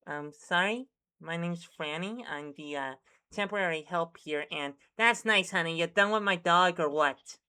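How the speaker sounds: raspy chain-smoker voice; rough pack-a-day rasp; smoker's rasp. Acted. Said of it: "pack-a-day voice for this character".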